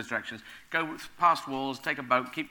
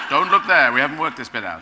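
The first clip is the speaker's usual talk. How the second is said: raised, louder squirrel warning; squirrel with a gun; 11 dB louder than usual. Acted. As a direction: warn them off as an armed squirrel. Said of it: "a squirrel with a gun saying".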